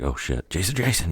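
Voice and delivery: mock panic jumping high on the repeated name; freaking out. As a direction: imitate a worried call for a lost friend. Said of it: "Freddy starts freaking out".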